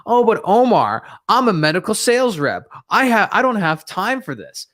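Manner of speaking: a touch of a whining medical sales rep; mock whiny salesperson. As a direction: parody a busy rep making excuses. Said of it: "some salespeople on this live stream are gonna say".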